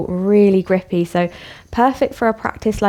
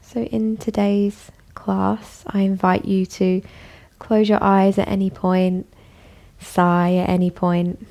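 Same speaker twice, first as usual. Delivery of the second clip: calm, even voice with long pauses; guided meditation. Acted. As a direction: guide them gently inward, leaving space after each phrase. Invites listeners to relax.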